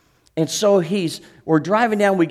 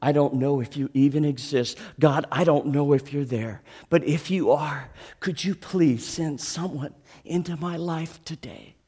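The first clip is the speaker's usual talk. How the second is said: desperate prayer. Retold or imitated. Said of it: "I said".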